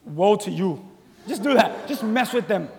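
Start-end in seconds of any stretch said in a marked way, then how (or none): 0.1-0.9 mock curse. Shown as a demonstration. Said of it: "just look at them and say".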